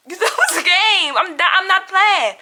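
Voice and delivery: taunting through a laugh; mock her while laughing.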